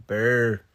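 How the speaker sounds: loud "Brr" with an attempted trill; failed R roll. Shown as a demonstration. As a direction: try to roll the R in "Brr" and fail. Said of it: "I can't say that".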